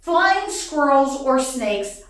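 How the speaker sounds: firm, loud, measured ultimatum; acted scolding announcement; stern decree to cats. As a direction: lay down the law, item by item. Lays down law to cats.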